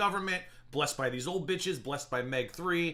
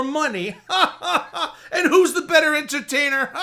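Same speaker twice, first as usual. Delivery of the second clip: high, loud words broken by laughter; mocking laughter; 6 semitones higher, 5 dB louder than usual. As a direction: crow mockingly, cracking up between phrases. Mocking rival through laughter.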